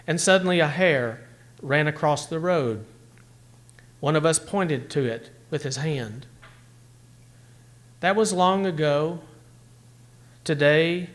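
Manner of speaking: tender, measured recital; poem reading. Acted. Teacher reads Miłosz poem.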